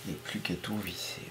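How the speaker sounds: quick self-directed murmur; quiet quick mutter. Real, not acted. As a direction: mumble it under your breath, quickly. Muttered repeat to himself.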